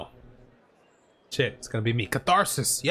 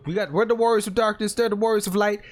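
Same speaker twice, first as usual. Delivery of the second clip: excited; 6 semitones higher than usual. Pretend. Explaining lore to bros.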